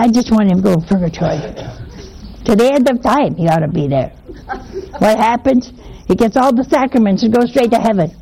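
a touch of the angry friend's indignation; mild retold anger. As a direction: rattle off a resentful grievance. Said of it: "And she was angry".

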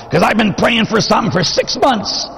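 high, whining parishioner, mocking; high, petulant imitation of a complainer; whiny mock complaint. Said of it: "they'll come up to me sometimes and say".

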